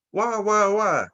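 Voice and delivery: a mock exasperated relative crying why. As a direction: voice a fed-up aunt throwing up her hands.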